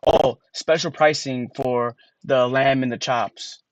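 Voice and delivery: slow, over-careful reading aloud; slow, stilted read-aloud; slow sounded-out reading. Shown as a demonstration. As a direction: read it like a kid sounding out words. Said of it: "reading like this".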